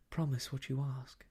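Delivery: quick, urgent pleading; almost passionately. Acted. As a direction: rush the plea, almost passionate. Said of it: "almost passionately".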